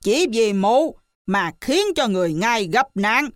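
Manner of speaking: monkey king upbraiding the lying widow; scolding shout. Acted. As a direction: berate her hotly. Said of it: "Hành giả quát".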